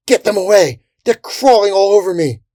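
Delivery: high, loud panicked yell; crying out. A narrator's reading. Crusader swarmed by fairies, crying out in alarm. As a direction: yell for help under attack. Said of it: "a man cried out".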